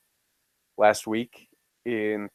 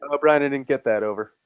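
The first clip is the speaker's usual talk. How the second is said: over walkie talkie; 4 semitones higher than usual. Retold or imitated. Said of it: "that Family Guy clip with Stewie".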